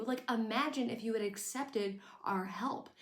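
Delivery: breathy whispered aside; whispering. Real, not acted. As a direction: whisper it like a secret. Whispered aside about accepting help.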